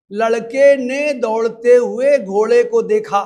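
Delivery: "لڑکے نے دوڑتے ہوئے گھوڑے کو دیکھا" loud and evenly run, no break; no punctuation. Shown as a demonstration. Teacher reads the example "لڑکے نے دوڑتے ہوئے گھوڑے کو دیکھا" loudly, unpunctuated. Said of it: "بغیر کسی علامت کے".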